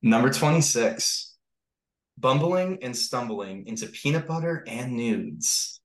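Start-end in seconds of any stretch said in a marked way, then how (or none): 2.2-5.8 slow, deliberate storybook title read; storyteller reading. Pretend. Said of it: "like, you're reading to the class".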